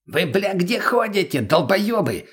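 high, slow rough yell. Acted. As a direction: bellow it down from the roof. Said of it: "орущего благим матом".

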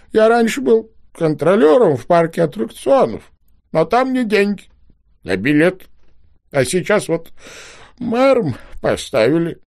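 высокий голос старичка, с паузами, чуть сквозь слёзы; старичок робко оправдывается; жалобный старичок. A narrator's reading. Old man tearful explanation. (старичок жалуется детям, высоким дрожащим голосом)

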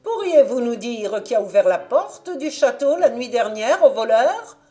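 high, sharp cockerel cry; rooster voice. Acted. Rooster on the donkey's head stopping the concierge, high and loud. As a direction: cut in like a proud little rooster.

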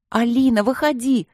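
high, loud call; shouting. A narrator's reading. Соседки кричат Алине, чтобы выходила, громко и высоко. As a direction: call her out of the bathroom. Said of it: "закричали девчонки".

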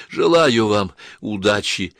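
slow, effortful words; struggling to speak. Acted. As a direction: push each word out with effort. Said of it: "с трудом проговорила она".

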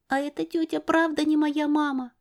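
put-on high child's voice, hopeful; little girl's question. Girl asking the narrator, high and hopeful. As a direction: ask it like a small girl.

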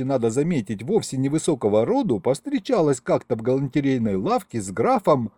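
ordinary delivery, nothing marked

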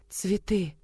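soft, airy gasp of a word; girl breathlessly spotting flowers. Acted. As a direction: breathe it out in awe. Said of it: "с придыханием закончила она".

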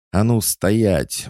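high, drawn-out order to halt; exclaimed command. A narrator's reading. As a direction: cry out to stop a brawl. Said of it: "воскликнула Мария".

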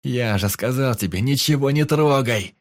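furious yell at a careless companion; yelling at the friend who touched everything; angry shout. Acted. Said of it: "закричал я".

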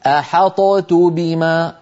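"أحطت بما" said slowly, the ط of "أحطت" bounced and then a heavy ت; demonstrating the wrong way, "أحطت" with a released ط; slow wrong demo. Shown as a demonstration. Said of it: "جربوها هكذا".

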